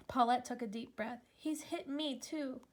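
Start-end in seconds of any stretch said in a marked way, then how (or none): 1.4-2.6 quiet, ashamed admission, much softer; hushed confession. A narrator's reading. Paulette quietly admitting to Stella the abuse. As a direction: let it barely come out, softer. Girl confessing her father hits her.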